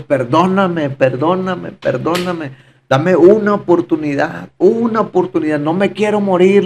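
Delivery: mildly imploring, pitch lifted on the repeats; retold cry to God. Testifying man retells begging God from the cell floor, pleading. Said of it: "le decía y le gritaba yo a Dios".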